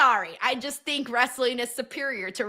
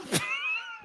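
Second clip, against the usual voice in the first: very high, thin laughing squeal; 8 dB quieter than usual. Real, not acted. Own high squeal after her argument.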